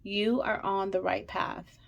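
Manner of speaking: fighting not to cry; quiet, tearful words; holding back tears. Real, not acted. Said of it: "I'm trying so hard not to cry".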